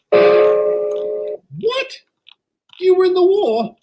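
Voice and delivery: high, breathless disbelief; shocked. Acted. Engine hearing Stanley served in the war, shocked. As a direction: gasp it out, can't believe it.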